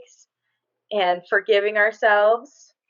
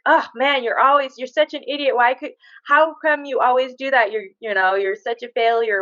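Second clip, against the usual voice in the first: harsh inner critic; 3 semitones higher than usual. Retold or imitated. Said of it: "when you're speaking about yourself in your mind".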